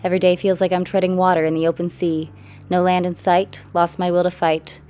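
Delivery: measured, rhythmic spoken-word delivery; poem reading. Real, not acted. Artist reading her own poem about a troubled mind, poem reading. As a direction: recite in rhymed lines, punching some line openings. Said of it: "reveal and the poem reading".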